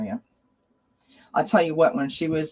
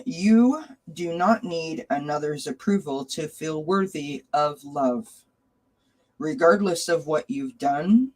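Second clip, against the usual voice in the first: card reading; slower than usual. Acted. Reader reading an angel card message to Sharon. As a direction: read the message slowly and gently.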